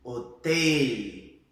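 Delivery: HOTEL loud and long, closed e, clear final l; Spanish pronunciation. Shown as a demonstration. Teacher giving a word to repeat, Spanish pronunciation. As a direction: model HOTEL with narrow e.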